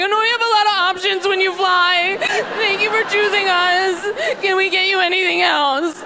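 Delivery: high singsong customer-service voice; hammed-up, sugary flight attendant; airline attendant impression. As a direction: chirp it like a cabin announcement. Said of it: "I turned into Southwest Airlines".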